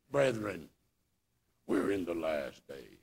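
low, slow, soft solemn theologian; hushed, drawn-out mock-theologian pronouncement. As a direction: intone it gravely, like a learned theologian. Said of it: "nobody can say it like a theologian".

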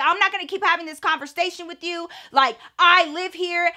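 acted-out indignant insistence; retold indignation. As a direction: imitate an exasperated mom standing her ground. Retold mom arguing with man.

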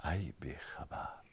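low, breathy whispered rebuke; hushed whisper. Acted. God chiding the dreaming old woman, hushed whisper. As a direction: whisper it like a secret reproach.

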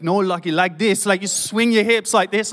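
lightly imitated Dutch accent; Geordie's Dutch accent. Boxing teacher correcting his pupil's stance, light mock Dutch accent. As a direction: mimic a Dutch boxing coach, accent only lightly put on. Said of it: "he's got this epic Dutch accent".

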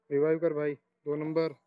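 loud urgent call; panicking gamer. Real, not acted. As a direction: shout for a revive. (घबराहट में चिल्लाना)

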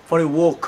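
for a walk, walk said wok; teacher models walk pronounced wok. Shown as a demonstration. শিক্ষক বলছেন walk, উচ্চারণ ওক. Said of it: "উচ্চারণটা ওক হবে".

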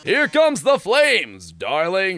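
gloating showman. Acted. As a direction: savour the mock grief. Villain host gloating.

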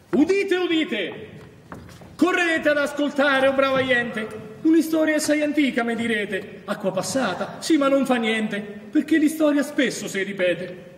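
lightly voiced crier calling the crowd; town crier. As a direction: proclaim it like a market-square crier, lightly. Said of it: "c'ho da entrare nel personaggio".

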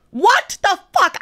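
high, drawn-out exasperation; mortified disbelief. Real, not acted. Storyteller reliving a botched handshake, high-pitched disbelief. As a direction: wail it in embarrassed disbelief.

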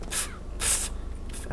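quick soft puffs of air; soft little "pff" sounds; puffing noises. Acted. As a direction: puff it out, no voice. Imitated puffs while playing.

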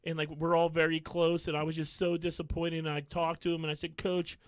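lightly mock a hushed, sincere-sounding voice; mild mock soft-spoken sympathy. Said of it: "like, a soft".

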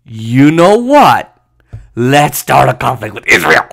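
slow, drawn-out mock proposal; sarcastic mimicry. Imitating Palestinians supposedly picking a fight, heavy sarcasm. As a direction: ham it up as an absurd idea.

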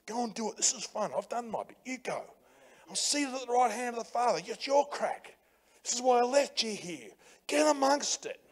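Jesus nudging you along, easy and light; voicing Jesus. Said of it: "Jesus on my shoulder going".

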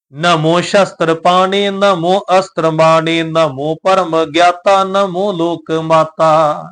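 slow, measured verse with drawn-out syllables; scripture recitation. Acted. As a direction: recite it slowly and evenly, stretching the line endings. (ਬਾਣੀ ਦਾ ਹੌਲੀ, ਲਮਕਵਾਂ ਪਾਠ)

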